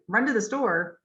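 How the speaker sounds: "run" and "store" clear, "to the" reduced; stress the meaning words. Shown as a demonstration. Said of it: "you hear run clearly and you hear store clearly".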